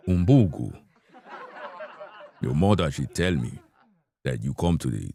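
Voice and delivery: lightly put-on Nigerian father voice; a hint of a Nigerian dad lecturing; mild Nigerian accent, father scolding. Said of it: "a guy come in be like".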